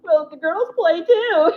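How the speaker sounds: put-on high, slow childish insistence with a laugh; mock kid protest. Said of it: "I'm like, Well".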